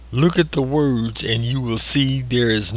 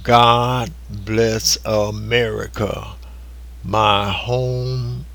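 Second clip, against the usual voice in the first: recited lyrics. Acted.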